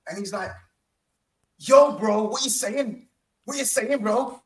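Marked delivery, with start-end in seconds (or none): 1.6-4.4 higher-pitched mock Birmingham accent; Birmingham fan's accent. Retelling a fan's greeting on the street, mock Birmingham accent. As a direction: imitate an eager fan in a Birmingham accent. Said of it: "his accent must have sounded even more enhanced".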